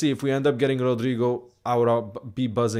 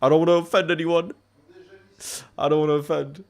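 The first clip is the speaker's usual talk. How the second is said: put-on a cheeky half-hearted Scouse accent, pitched higher and louder; mock Scouse accent; 5 semitones higher, 3 dB louder than usual. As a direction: jokingly slip into a Scouse accent. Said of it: "I can't do a Scouse accent".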